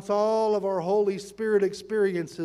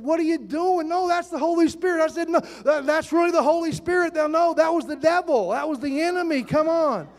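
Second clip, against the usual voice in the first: retold indignation; 8 semitones higher, 4 dB louder than usual. Retold confrontation over disruptive woman.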